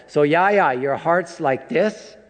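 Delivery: put-on a light touch of a little boy's voice; five-year-old asking. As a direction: ask it the way a small child would. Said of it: "the five-year-old kept going".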